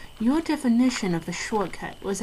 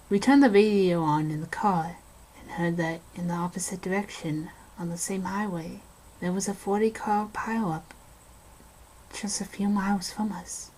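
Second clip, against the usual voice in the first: hushed, eerie storytelling, half-whispered in places; spooky story narration. Acted. Passing time while lost in the woods, eerie narration. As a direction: tell it like a campfire ghost story.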